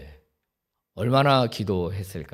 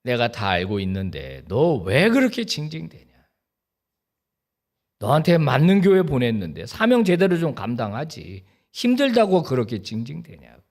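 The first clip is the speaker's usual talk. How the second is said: God rebuking; 4 dB louder than usual. Retold or imitated. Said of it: "God's voice retold".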